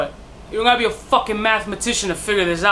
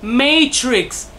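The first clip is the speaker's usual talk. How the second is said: amazed realization; 5 semitones higher, slower than usual. Real, not acted. Reviewer discovers the Neo and Matrix link, high and amazed. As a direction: stretch it out, astonished.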